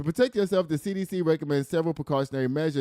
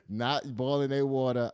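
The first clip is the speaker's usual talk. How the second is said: laughing. Real, not acted. Laughing at trailer park joke.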